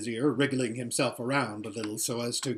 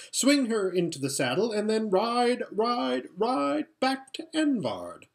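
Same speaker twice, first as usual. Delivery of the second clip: eager rising plan; 8 semitones higher, 3 dB louder than usual. Acted. Prince to his father, rising eagerly. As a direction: pitch climbing on each ride, then slowing.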